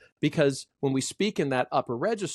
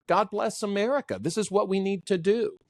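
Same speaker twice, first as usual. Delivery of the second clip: passionate, pitched way up; high passionate register; 6 semitones higher than usual. Shown as a demonstration. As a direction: declare it up in the head voice. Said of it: "we're gonna be up here".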